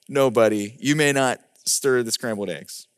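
low, gentle fatherly no; calm refusal. Retold or imitated. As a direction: turn the child down quietly and low. Father in story refuses son.

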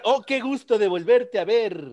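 Impression of a singer. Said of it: "Así como un cantante".

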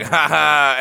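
mock a friend laughing at you; imitated laugh. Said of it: "laughed, and was like".

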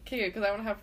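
burp breaking the words; talking through a burp; burping after fizzy drink. Real, not acted. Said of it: "oh, sorry, I'm burping".

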